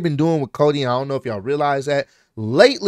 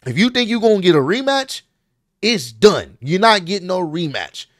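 higher-pitched, fed-up retort; irritated refusal, pitched up; 5 semitones higher than usual. Retold or imitated. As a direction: act out an irritated wrestling promo. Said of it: "And he got irritated here".

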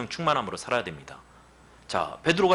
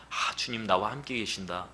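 hushed awe; 3 semitones lower, 6 dB quieter than usual. Retold or imitated. Feeling grace, quiet awe.

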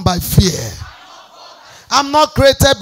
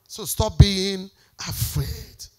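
slow plea; 3 semitones lower, 5 dB quieter, much slower than usual. Real, not acted. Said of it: "repeated closing plea".

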